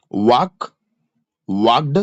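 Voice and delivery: "वॉक, वॉक्ड" with no L sound; silent L. Shown as a demonstration. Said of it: "एल silent होता है इसमें". ("वॉक, वॉक्ड" में एल बिल्कुल silent)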